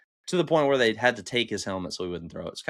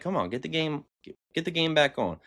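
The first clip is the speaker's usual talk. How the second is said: mock booing crowd; 6 semitones higher than usual. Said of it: "They're like".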